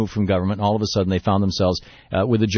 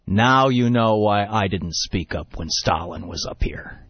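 slow, measured delivery with a smile; smiling, retold punchline; 2 semitones lower, slower than usual. Khrushchev smiling as he answers the heckler, slow and knowing. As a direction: let the point land slowly. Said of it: "leans forward and he smiles and he says".

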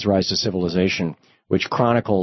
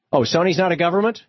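sarcastic; 8 semitones higher, faster than usual. Real, not acted. Host mocking corporate trade lobbying.

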